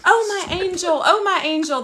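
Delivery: imitated tender relief; retold sweet gratitude. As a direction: gush it sweetly, as if greeting a rescuer. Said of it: "it was so sweet".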